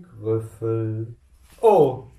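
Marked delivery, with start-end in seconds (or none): 1.6-2.1 lauter Schreckensruf; erschrockenes Oh. Acted. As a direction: fahr erschrocken zusammen. Maus erschrickt vor Grüffelo. (erschrockener Ausruf)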